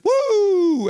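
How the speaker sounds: very high, loud whoop; mock gargoyle whoop. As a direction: let out a wild fan whoop. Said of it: "And he sounds like".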